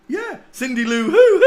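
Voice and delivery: high, loud burst of real laughter; laughing. Real, not acted. Vlogger cracks up at his own Who joke, high laughter.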